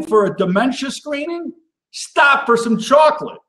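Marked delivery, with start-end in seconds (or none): 1.9-3.4 sing-song catchphrase, pitched up high; bright chanted tagline, much higher. Acted. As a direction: toss out the refrain like a jingle. Recurring catchphrase refrain.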